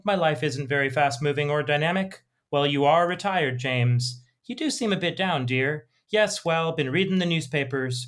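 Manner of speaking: put-on mild, cosy old-couple voices; reading an elderly British couple's dialogue. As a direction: read it like two gentle old Brits at home. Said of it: "I'm just gonna read a little bit of the dialogue".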